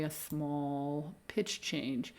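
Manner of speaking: slow emphasis. Shown as a demonstration. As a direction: stretch it out slowly and softly. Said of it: "concentrate on incorporating a small pitch change".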